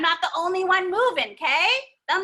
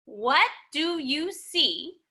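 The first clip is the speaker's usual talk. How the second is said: slow sing-song prompt; much slower than usual. Shown as a demonstration. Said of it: "whenever you hear me say".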